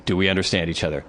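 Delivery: low, controlled ultimatum; firm retold warning. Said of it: "I reiterated what was going to happen".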